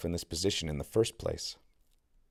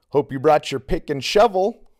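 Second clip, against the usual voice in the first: fake enthusiasm; 8 semitones higher, 9 dB louder than usual. A narrator's reading. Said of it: "voice drips with fake enthusiasm".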